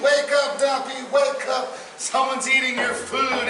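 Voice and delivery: high, urgent mock yell to wake Nappy; mock scream. The bum yells to wake sleeping Nappy, high mock scream. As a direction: shout up high to rouse a sleeper. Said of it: "Nappy's bum was screaming".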